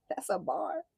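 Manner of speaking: high, delighted exclaim; hyped reaction. Real, not acted. Reader hyping up a taunt, high delight. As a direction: celebrate a good line.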